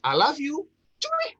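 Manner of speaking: high, loud, jokey love line; playful, insincere declaration. Shown as a demonstration. Coach demonstrating the third example to listeners, playfully over the top. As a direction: toss it out high and cheeky to a buddy. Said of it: "Atau yang ketiga".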